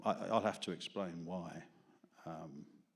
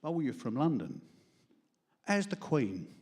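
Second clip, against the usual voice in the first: mimicked out-of-towner accent, pitched up; lightly mocked non-London accent, higher voice; 6 semitones higher, 5 dB louder than usual. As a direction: put on an accent from outside London for a nosy question. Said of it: "because they're not from London".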